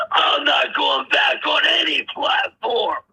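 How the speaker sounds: defiant shout. Real, not acted. Final defiant outburst.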